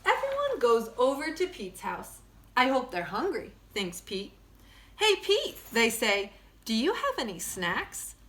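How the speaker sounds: lively storybook read-aloud; bright picture-book narration; reading to children. Acted. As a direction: read it like story time for kids. Reads picture book to class.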